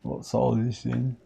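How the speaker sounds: put-on British accent, drawn out; slow, lightly hammed British accent. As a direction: playfully ask it in a mock British accent. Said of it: "stop doing the British accent".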